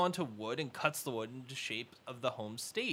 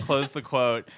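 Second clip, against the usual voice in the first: dictating; 7 dB louder, slower than usual. Shown as a demonstration. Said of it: "okay, here's a tweet".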